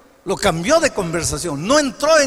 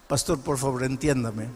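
pleading; 9 semitones lower, 8 dB quieter than usual. Acted. Elder begging the pastor.

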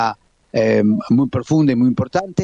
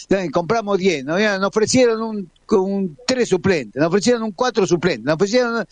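mocking club executives; 6 semitones higher than usual. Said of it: "Vieron que después dicen".

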